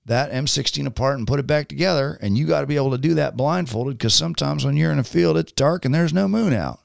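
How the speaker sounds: put-on thick Southern accent. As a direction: explain it in a Southern twang. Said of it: "it's this very thick Southern accent".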